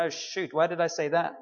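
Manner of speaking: softly dismayed; mock regret. Believer regretting his yes.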